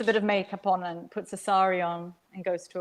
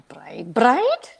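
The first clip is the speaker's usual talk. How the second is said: shocked whisper; 2 semitones higher, 5 dB louder than usual. A narrator's reading. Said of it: "tight grip".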